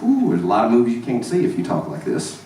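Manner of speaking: broad Mississippi twang; Southern Mississippi accent. Shown as a demonstration. Comedian on movies he can't see, Southern Mississippi accent. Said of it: "you can't do with this accent".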